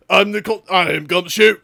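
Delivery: mock Scotland Yard policeman; British constable accent. Detective reporting a witnessed murder, British constable accent. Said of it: "I'm gonna do it".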